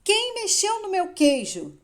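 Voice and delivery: indignant high-pitched bellow; Hen. A narrator's reading. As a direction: bellow it as a loud, outraged demand. (berro indignado)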